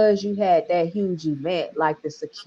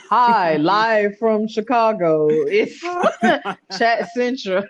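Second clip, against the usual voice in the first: laughing mock newscaster; news anchor voice; 3 semitones higher than usual. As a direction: tease a friend's anchor delivery through laughter. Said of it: "that news anchor voice you got".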